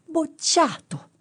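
high, slow, drawn-out shout; shouted verdict. Acted. Professor shouting the fail at the candidate, high and slow. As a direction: bellow the failing verdict. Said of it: "gli gridò".

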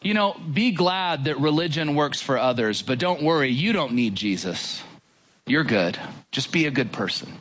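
lightly voiced deceiver easing them away from faith; understated soothing false teacher; comforting false voice. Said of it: "He sounds like this".

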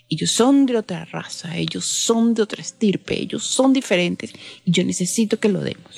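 retold insistence, stretching each "son"; insistent emphasis. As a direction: drive home each "Ellos son" with a held "son". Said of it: "especialmente hizo hincapié en eso".

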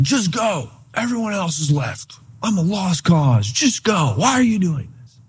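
high, pleading mock sob; imitating Bob crying. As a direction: voice him breaking down, begging to be left alone. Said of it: "Bob starts crying".

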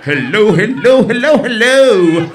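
slowing mock greeting over the sound; loud covering hellos. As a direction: call out hello to drown out the noise. Coughing to cover a fart.

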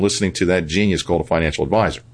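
understated sarcasm on "genius"; real but lightly sarcastic dig. Real, not acted. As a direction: say it with dry, mock respect. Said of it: "I say that rather sarcastically".

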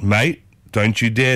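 slow warning to a mate. Shown as a demonstration. Aussie showing how mate can warn someone, slow warning. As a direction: draw it out as a caution. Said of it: "It's a warning".

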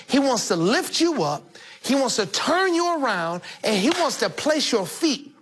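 emphatic pulpit appeal; preaching encouragement. Acted.

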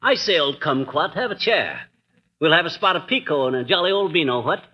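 hammed-up posh British gent; a light put-on English accent; mock English accent. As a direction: play the jolly English squire, lightly. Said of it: "Isn't this nauseating".

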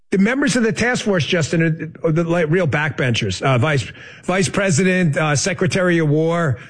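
dry mock dismissal of the names; sarcastic. Real, not acted. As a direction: feign scorn for a list of supposed nobodies. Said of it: "I'm obviously being sarcastic".

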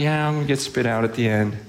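offhand, quick shrug of a line; imitated breezy unconcern; mock casual. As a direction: toss it off casually, imitating indifference. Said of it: "you're just casually".

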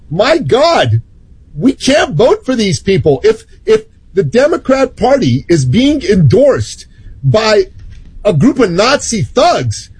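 usual speaking voice

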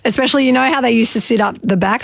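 talking through a mouthful of chips; words round a bite of food; mouth full. Real, not acted. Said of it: "I've got chips in my mouth".

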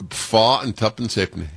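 mimicked Leeds seller's Yorkshire dialect; Yorkshire accent. Host repeating what baffled him in Leeds, Yorkshire accent. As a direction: repeat the price as one Yorkshire mouthful. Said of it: "had he said it in Bulgarian".

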